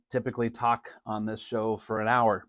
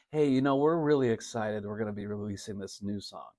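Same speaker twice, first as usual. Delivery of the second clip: dull announcement; 3 semitones lower, 6 dB quieter than usual. Shown as a demonstration. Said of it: "Don't even say that".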